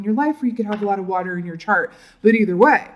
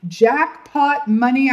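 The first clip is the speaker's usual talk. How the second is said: higher, slow savored exclamation; jackpot delight; 4 semitones higher, much slower than usual. Real, not acted. Tarot reader hits a winning card, savored delight. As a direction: draw out both words with relish.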